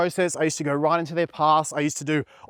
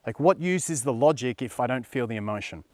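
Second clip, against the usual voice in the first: skeptical viewer. Retold or imitated. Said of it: "You're thinking".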